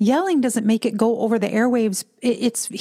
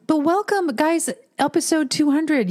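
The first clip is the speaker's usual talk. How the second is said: dramatic welcome; 7 semitones higher than usual. Shown as a demonstration. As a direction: stretch it out for drama. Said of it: "supposed to be more dramatic".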